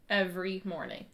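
slow, exaggerated mouthing, very quiet; over enunciating. Shown as a demonstration. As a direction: shape each word slowly and clearly. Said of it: "hear you whispering a little bit".

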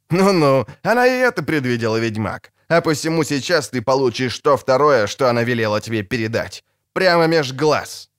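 gloating, menacing taunt. Acted. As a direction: lean into the threat with relish. Villain taunts witcher before shooting.

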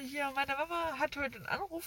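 talking through a blocked nose; stuffy nose. Real, not acted. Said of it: "Entschuldigung, meine Nase".

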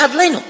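words mashed into "Adleinu"; syllables swallowed into "Adleinu"; garbled blessing. Shown as a demonstration. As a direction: demonstrate careless slurring with "Adleinu". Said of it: "and don't say".

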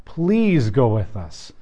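a hushed second plea. Retold or imitated. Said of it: "Moses is basically begging God".

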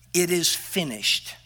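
quiet last words. Retold or imitated. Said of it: "he uttered the words".

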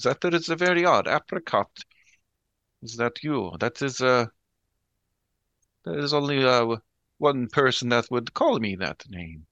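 wary and unsettled, feeling for the truth; Sister B uneasy. Acted. Sister B speaks to the voice.

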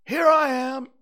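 high, loud bear character; growly bear voice. A narrator's reading. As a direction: announce yourself as a storybook bear. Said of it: "said a growly voice behind him".

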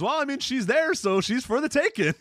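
high hammed-up Gene voice; mock Mean Gene. Host imitates Mean Gene's joke on commentary, high hammy voice. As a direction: play it as a goofy announcer. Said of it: "And then he goes".

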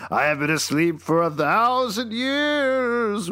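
just-woken ancient deity; sleepy god voice. Acted. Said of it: "I'm a sleepy god".

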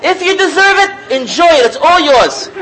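amused rabbi's blessing, high and loud with laughter; laughing retold rabbi. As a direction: relish the rabbi's punchline while laughing. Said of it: "He says".

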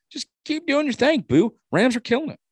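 high, bright cheering for the Rams; excited cheer. Real, not acted. Host cheering the Rams on after their offseason, excited. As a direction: cheer them on like a fan.

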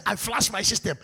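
loud, forceful prayer command; bold declaration. Shown as a demonstration. Preacher showing the congregation how to pray, loudly. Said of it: "You say".

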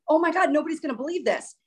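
mildly overwhelmed, recalling the panic; retold freak-out. Telling viewers nobody would believe it, mildly freaking out. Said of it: "I started freaking out".

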